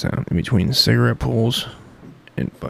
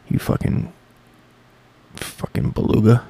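unvoiced mock insult under breath; playful whispered name-calling; muttered insult. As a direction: whisper the jab at Dusty.

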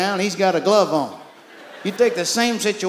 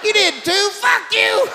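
arguing; 12 semitones higher, slower than usual. Acted. Arguing with himself.

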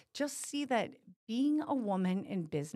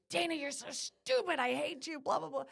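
self-scolding; 6 semitones higher than usual. Retold or imitated. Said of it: "but I'm angry with myself".

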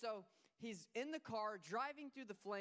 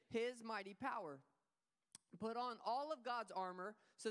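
scripture reading; 2 semitones higher, 3 dB louder than usual. Acted. Pastor reading Paul's words to the church, proclaiming. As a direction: read it out louder, with weight. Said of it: "He says in verse ten".

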